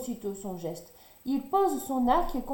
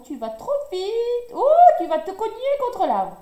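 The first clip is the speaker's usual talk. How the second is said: high, loud alarmed shouting; alarmed cry; 12 semitones higher, 9 dB louder than usual. A narrator's reading. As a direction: shout it before he hits the tree. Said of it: "s'écrient les animaux". (cri d'alarme aigu et fort)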